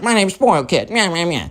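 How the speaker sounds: mock the brat, dissolving into nonsense noises; mocking bratty kid. Spoiled kid tells the mom his name, mocked brattily.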